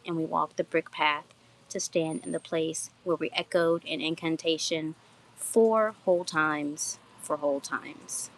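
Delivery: measured, steady poem recitation; poem reading. Acted. Poet reads own garden poem to live viewers, measured poetry reading. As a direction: read your own poem aloud, evenly paced.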